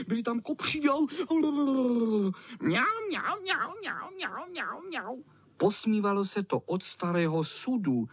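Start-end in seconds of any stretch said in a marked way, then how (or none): 0.9-5.2 high mocking meows fading away; meowing echo. A narrator's reading. Echo mocking the boys with meows, high then fading. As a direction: meow high and let it fade out.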